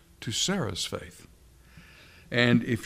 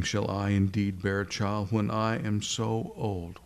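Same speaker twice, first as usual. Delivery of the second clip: serious, sober quoting of her question; measured, humourless questioning; the Lord, unamused; 3 semitones lower than usual. Acted. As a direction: repeat her words back without any amusement. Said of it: "wasn't quite so, so funny to the Lord".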